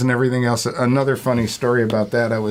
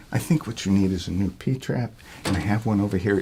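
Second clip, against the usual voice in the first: mildly lower-key, imperturbable clerk; unbothered; 3 semitones lower, 4 dB quieter than usual. Retold or imitated. Clerk ignoring a raving customer, unbothered. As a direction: carry on evenly as if nobody had yelled. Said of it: "ignored the whole thing".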